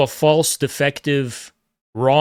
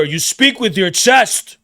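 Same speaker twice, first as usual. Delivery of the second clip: booming chest voice; 5 semitones higher, slower than usual. Shown as a demonstration. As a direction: show him what chest voice sounds like. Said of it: "Your voice booms".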